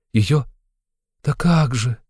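plaintive drawn out. A narrator's reading. A girl asked if she loves her stepmother, plaintive. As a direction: stretch it out with pity. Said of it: "протянула Соня жалобно и с состраданием".

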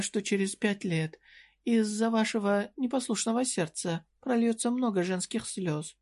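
put-on a coy shopkeeper needling a young customer; voiced merchant woman. Merchant woman teases the hero. (слегка повышенный голос лукавой торговки)

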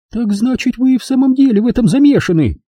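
high, fast outraged question; indignant. A narrator's reading. Jigger confronts Miss Rushby, indignant. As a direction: demand it in disbelief. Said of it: "возмутилась Джиггер".

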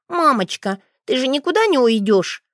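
put-on high, anxious little-boy voice; frightened child. A narrator's reading. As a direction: plead like a worried child. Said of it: "В глазах ребёнка мелькнул настоящий страх". (испуганным детским голосом)

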